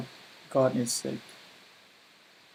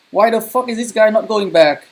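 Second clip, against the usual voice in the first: higher, louder furious rant; angry yell; 7 semitones higher, 5 dB louder than usual. Real, not acted. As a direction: yell at the useless teammate. Raging at an ally in game.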